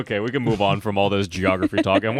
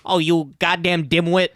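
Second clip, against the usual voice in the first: angry shrill boss; 6 semitones higher than usual. Retold or imitated. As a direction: chew out a worker, higher. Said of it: "And Miss Hall goes".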